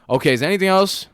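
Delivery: high, loud, strained service question; visibly upset cashier. Retold or imitated. Upset cashier finishing an order, high and strained. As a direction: imitate an upset server pushing through the order. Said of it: "Like, visibly upset".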